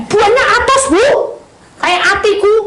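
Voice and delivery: put-on very high, loud child's voice; a child bursting to explain; child eagerly explaining the fruit to the counsellor; excited child.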